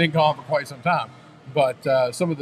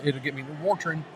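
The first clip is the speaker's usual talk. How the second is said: mock hillbilly accent; 5 dB quieter than usual. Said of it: "hillbilly accent".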